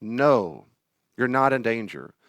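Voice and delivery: steady, gentle correction; adult calming an anxious child; firm but kind. Retold or imitated. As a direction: set a loving boundary. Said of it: "I visualize looking at him".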